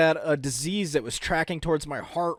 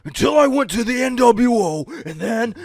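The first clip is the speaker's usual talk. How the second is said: Hulk Hogan voice; 5 semitones higher, 4 dB louder than usual. Acted. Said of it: "I've done Hulk Hogan".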